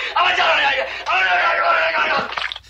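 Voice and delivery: very high falsetto cackle; hammed-up high shriek of laughter; hysterical shrieking laugh. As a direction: cackle wildly out of control. Mock hysterical outburst ending.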